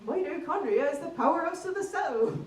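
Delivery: broad, rounded West Country delivery; hammed-up West Country textbook reading; West Country accent. Teacher addressing confused students, in a broad West Country accent. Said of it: "I would read them in a west country accent".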